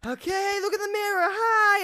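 put-on high, sing-song voice for a baby; imitating cheerful talk to a baby. Talking to the baby, retold.

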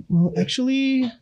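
pompous professor voice, drawn out; smart-guy impression. Imitates brainy friend Adam, high slow know-it-all voice. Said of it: "Adam, Adam".

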